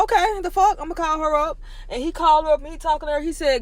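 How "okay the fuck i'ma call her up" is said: annoyed son. Retold or imitated.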